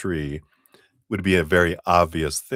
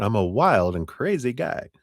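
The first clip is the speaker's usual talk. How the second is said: lightly voiced comic catchphrase; hint of a wild and crazy guy; Steve Martin; 4 semitones higher than usual. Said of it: "Now he's doing Steve Martin".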